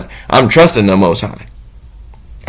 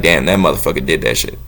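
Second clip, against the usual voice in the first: awed onlooker; 7 semitones lower than usual. Retold or imitated. Imagined heaven crowd in awe.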